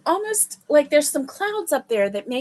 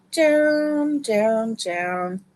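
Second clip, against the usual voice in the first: descending down; much slower than usual. Real, not acted. Turning volume down.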